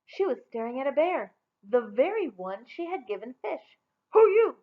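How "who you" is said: high, loud surprised ask; startled question. A narrator's reading. Rella startled by the bear, high and loud. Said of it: "she asked".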